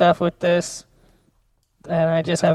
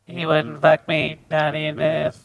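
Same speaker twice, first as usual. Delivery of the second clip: robot voice; 3 semitones lower, 3 dB quieter than usual. Shown as a demonstration. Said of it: "Okay, now do it".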